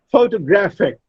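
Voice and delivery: "Photographic" said pho-to-GRAPH-ic; stress on third syllable. Shown as a demonstration. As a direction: lean on GRA in "Photographic". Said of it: "Gra, the third syllable".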